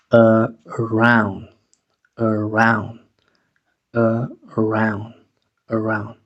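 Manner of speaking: "Around" with a weak schwa start, uh-ROUND; initial schwa. Shown as a demonstration. Teacher drilling the word, weak initial schwa. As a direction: start "Around" with a short relaxed uh. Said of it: "La A va a sonar schwa".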